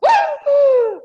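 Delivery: loud, high imitated gasp of alarm; mother's shocked gasp. Teacher mimicking her mother in the car, loud high shocked gasp. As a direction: mimic a panicked passenger's sharp intake of breath. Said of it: "taking driving lessons with my mother was horrible".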